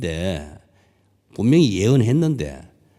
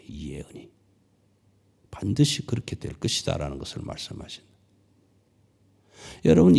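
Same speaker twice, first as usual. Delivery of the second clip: usual speaking voice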